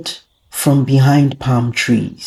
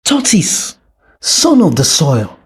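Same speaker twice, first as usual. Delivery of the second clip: stern king; 2 semitones higher than usual. Acted. King judges the tortoise.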